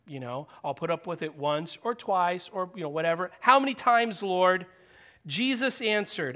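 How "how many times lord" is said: exasperated Peter. Acted. Peter's question voiced again.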